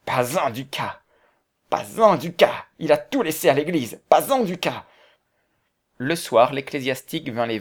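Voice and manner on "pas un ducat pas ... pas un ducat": anguished outcry building to high, loud repeats; despairing cry. A narrator's reading. Ruined heir, face hidden in the tablecloth, crying out in despair. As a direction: cry out, each repeat more desperate and higher. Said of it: "se couvrant le visage de la nappe, il s'écria".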